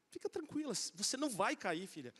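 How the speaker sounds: calm the scared daughter, tenderly; soft reassurance. Retold or imitated. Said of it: "Porque eu tô aqui".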